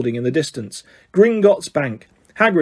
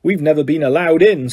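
envious. Acted. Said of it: "said Ron enviously".

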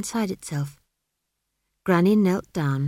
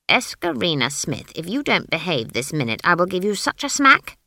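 stern threat; 4 dB louder than usual. Acted. Granny threatens the child.

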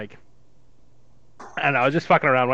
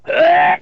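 sudden loud startled yelp, pitched up; 7 semitones higher, 9 dB louder than usual. Retold or imitated. Hunter yelps at a buddy's smoke in the blind, startled. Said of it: "I'm like".

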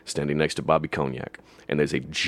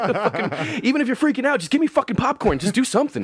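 much higher, laughing through it; high laughing rant. Real, not acted. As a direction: rant while cracking up. Laughing, voicing exasperation.

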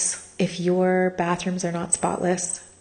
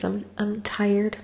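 tearful whisper; 3 semitones higher, slower than usual. Real, not acted. Crying while telling story.

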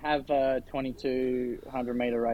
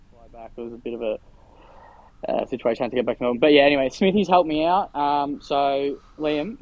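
corrupted glitchy audio; 4 dB louder than usual. Real, not acted. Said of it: "I think your audio's cutting out a bit".

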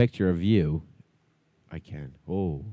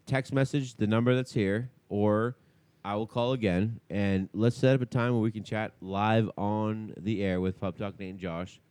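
softer radio-host voicemail; voicemail message; 4 dB quieter than usual. Acted.

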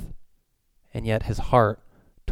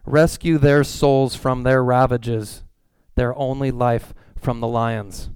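slow prayer; slower than usual. Acted. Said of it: "here's the prayer".

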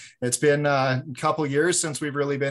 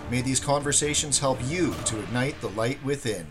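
smooth announcer read over music; podcast intro read. Acted. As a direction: read it like a show opener.

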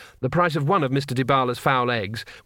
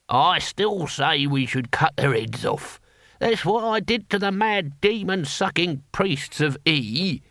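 put-on slow, higher-pitched old fighter's voice; grumbling old warrior; 4 semitones higher, slower than usual. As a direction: grumble slowly about harsher measures. Figure in the story.

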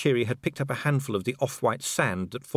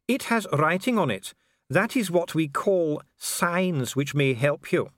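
slow, higher, pointed precision; mocking echo; 8 semitones higher than usual. Official echoes investigator's explanation of clues, condescending. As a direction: hand his words back with condescension.

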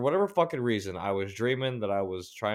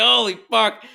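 shocked cry; 12 semitones higher, 9 dB louder than usual. Retold or imitated. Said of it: "I was just like".

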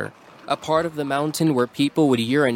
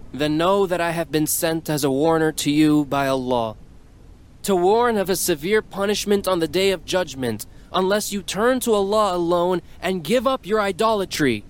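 prophet voice; 6 semitones higher than usual. Acted. Prophet warns the crowd.

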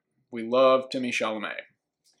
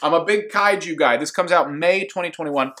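laughing; 4 semitones higher, 3 dB louder than usual. Real, not acted. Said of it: "Can't even say that with a straight face".

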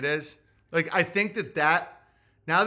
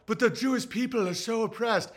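higher mock-plaintive voice; mock complaint; 4 semitones higher than usual. Showing Jews how not to answer Kanye, mock complaint. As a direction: imitate a plaintive protest. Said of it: "You don't go".

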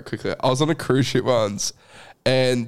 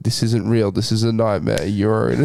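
soft echoing dream voice; 3 semitones lower than usual. Pretend. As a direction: lull them like a hypnotist. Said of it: "they'll do an A S M R for you".

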